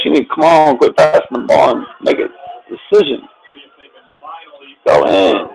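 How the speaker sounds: loud, high griping at the coach; frustrated fan yelling. Real, not acted. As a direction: yell at the play calling. Yelling at the team's play calling.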